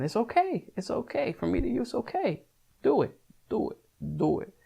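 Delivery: high, soft coaxing voice; high-pitched playful encouragement; gentle coaxing. Pretend. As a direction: reassure and urge, pitched well up. Coaxing viewers to buy it.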